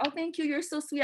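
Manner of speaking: high, soft polite gratitude; lightly acted sweet appreciation; sweet thanks. Client thanking a man for lunch, sweetly.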